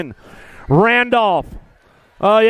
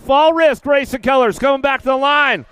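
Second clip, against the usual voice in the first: 1 excited call; 3 semitones higher than usual. Real, not acted. Excited call after the crash.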